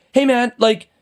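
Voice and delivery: high, confrontational retold comeback; aggressive challenge. Man in a bad mood confronting the driver, aggressive challenge. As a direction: act out snapping back at a stranger. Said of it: "responding in an aggressive manner".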